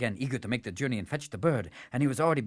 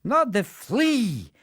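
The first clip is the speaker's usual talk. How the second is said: lightly voiced marksman setting it straight; patient sharpshooter; 5 semitones higher than usual. Sharpshooter corrects the fool.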